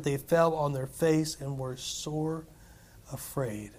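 slow, dropping to a hush on afraid; reading the disciples' fear, fading softly. Acted. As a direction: fade out as they fall afraid.

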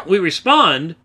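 loud, carrying shout; calling it out as if to a hall. Real, not acted. Preacher calling out a rebuttal in a loud shout. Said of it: "I need to stop talking so loudly".

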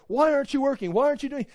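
pitched high, chewing out a lazy student; scolding teacher. Retold or imitated. Teacher scolding a distracted kid, high exasperated voice. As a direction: demand it like a fed-up teacher. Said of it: "and then I go, like".

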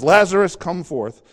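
calling Lazarus out loudly, a rising shout on the name. Acted. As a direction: call the name out high and loud, as if across a distance. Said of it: "he calls and says".

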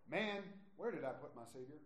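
put-on light Southern accent, casual and puzzled; a hint of a Southern good old boy lost his keys; Southern drawl. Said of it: "I get Southern for that illustration".

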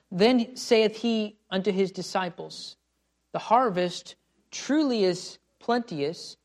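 slow, measured reading of the verse; deliberate Bible recitation; scripture reading. Acted. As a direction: read the King James words slowly.

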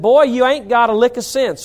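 North Carolina dad's scolding line, repeated lightly; a touch of North Carolina accent on "Boy, you ain't got a lick of sense". Retold or imitated. Preacher repeats his dad's words in a light North Carolina accent. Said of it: "That's how he said it".

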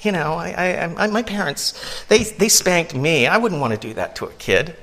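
high, dismissive parent voice, lightly sent up; mocking lax parent. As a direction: brush it off like an indulgent parent. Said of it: "and the parents say".

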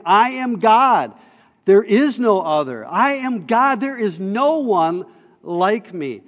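God declaring. Acted. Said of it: "God is saying".

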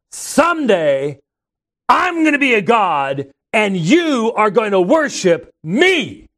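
slow loud boast to shake the crowd; loud proclamation. Retold or imitated. Missionary booming at the preacher before the crowd, loud and slow. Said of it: "in a very loud voice".

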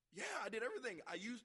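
loud, high insistent reply; imitated indignant protest. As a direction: protest that you followed orders. Acted national protesting.

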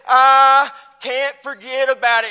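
loud, rising exclamation; fervent cry. Retold or imitated. David remembering his anointing, loud cry. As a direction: cry it out from the heart.

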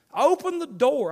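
loud slow command. Real, not acted. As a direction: call it out slowly like a command. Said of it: "why I say open the door".

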